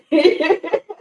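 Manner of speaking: bright laugh rising high; real laugh at the chat. Real, not acted. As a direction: burst out laughing. Laughing at the funny chat quote.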